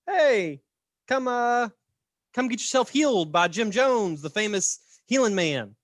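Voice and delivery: hammed-up call to the crowd; revival barker. Touring church hawks Jim Jones's healing, hammed-up barker call.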